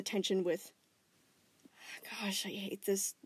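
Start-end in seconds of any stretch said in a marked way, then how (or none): 2.0-3.1 soft whispered sigh. Acted. Connie whispers her frustration into the phone. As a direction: breathe it out under her breath.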